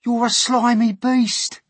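slow, very high shouted insult; jeering centipede. Acted. Centipede insulting the earthworm, jeering shout. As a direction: stretch the insult out, loud and high.

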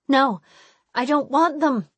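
high, loud refusal; upset cry. Acted. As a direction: cry out in protest.

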